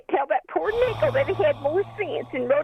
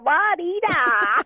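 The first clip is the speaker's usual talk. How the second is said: sing-song mock; 3 semitones higher, 3 dB louder, much slower than usual. Mocking the quarter.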